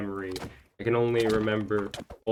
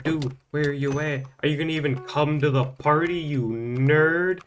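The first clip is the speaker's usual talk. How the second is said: impatient friend; 5 semitones higher, 4 dB louder than usual. Retold or imitated. Friend Exil calling on phone.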